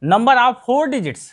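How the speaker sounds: Number of four digits said slowly, four stressed; slow, clear classroom read-out; teacher stating the English term slowly; slow teaching recital. Shown as a demonstration. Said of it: "ठीक है".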